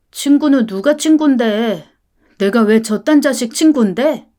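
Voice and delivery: put-on sulky boy snapping back; defiant child. Son snapping back at his mother, defiant and sulky. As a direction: spit it out like a resentful kid.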